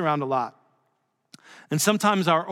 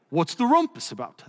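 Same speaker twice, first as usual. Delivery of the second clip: amateur English accent, lightly put on. C S Lewis interrupts the debating scholars, mock English accent. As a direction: have a go at sounding English. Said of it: "That's my English accent".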